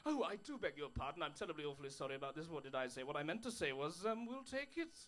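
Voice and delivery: hammed-up courtesy while taking the country; overly polite Englishman. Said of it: "in a really extraordinarily polite way".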